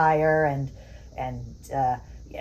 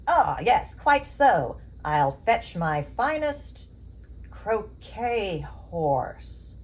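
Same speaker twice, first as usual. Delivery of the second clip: mock posh English; 3 semitones higher, much slower than usual. Hosts pretending to be rich English gentry, mock posh English accent. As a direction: play a pompous English aristocrat, lightly.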